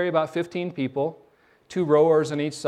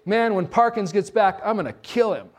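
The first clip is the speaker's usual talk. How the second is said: mock threat; 5 semitones higher than usual. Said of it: "he told them".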